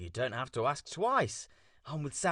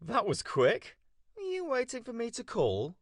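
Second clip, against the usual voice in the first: phone voice; 3 dB quieter than usual. Real, not acted. Coop talking over phone call.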